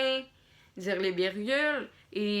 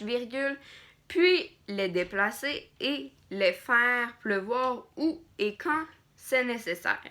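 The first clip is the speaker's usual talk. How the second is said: dictating. Shown as a demonstration. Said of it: "dire les points, dire les virgules". (dictée lente, ponctuation dite à voix haute)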